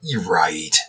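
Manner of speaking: low gravelly growl. Acted. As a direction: drop low and rough. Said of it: "say it again with that gravelly voice".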